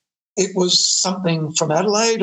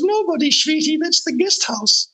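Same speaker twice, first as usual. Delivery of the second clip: put-on Zsa Zsa Gabor-style accent; 10 semitones higher than usual. Mansion owner brushing off the band's question, in an imitated Zsa Zsa Gabor-style accent. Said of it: "She goes".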